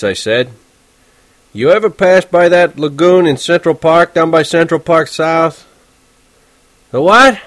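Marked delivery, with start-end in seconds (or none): 1.5-5.6 lightly voiced teenager, a bit higher; eager, polite kid asking questions; young Holden. Narrator voicing Holden asking the cabbie about ducks. 6.9-7.4 higher, louder gruff cabbie. Acted. Horwitz the cab driver barking at his passenger.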